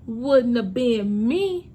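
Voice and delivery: repeated slowly for emphasis; slow echo. Shown as a demonstration. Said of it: "it wouldn't have been me".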